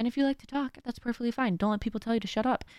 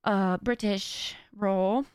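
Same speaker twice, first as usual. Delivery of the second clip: put-on posh British accent. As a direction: play at sounding posh and British. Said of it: "I definitely put on a posh accent".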